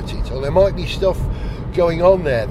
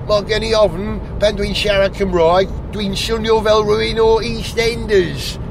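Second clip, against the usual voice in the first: higher-pitched Welsh with an EastEnders accent; 4 semitones higher than usual. Shown as a demonstration. Welsh speaker mocking his own London-tinged Welsh, EastEnders accent. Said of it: "I sound like someone from EastEnders".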